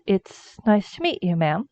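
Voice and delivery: soft, courteous introduction; polite greeting. Acted. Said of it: "bows politely and says".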